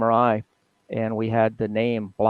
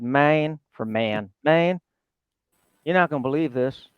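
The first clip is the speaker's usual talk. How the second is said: put-on phone call in a Texas accent, a bit quicker at the end; 3 semitones higher than usual. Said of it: "his Texas accent".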